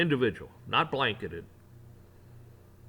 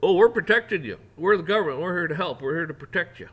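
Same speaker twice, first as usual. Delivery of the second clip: loud, high mocking reassurance; sarcastic mock government; 7 semitones higher, 9 dB louder than usual. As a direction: ham up a fake friendly official.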